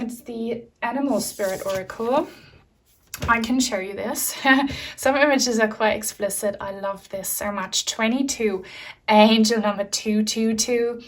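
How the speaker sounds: ordinary delivery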